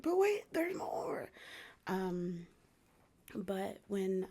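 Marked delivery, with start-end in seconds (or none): 0.0-1.3 high, unvoiced, slower whisper; whispered catchphrase. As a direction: hush it like a secret reveal. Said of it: "And then it's like".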